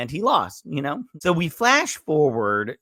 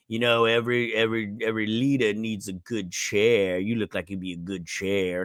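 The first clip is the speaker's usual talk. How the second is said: menacing boss; 3 semitones lower than usual. Retold or imitated. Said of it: "Mannheim's all like".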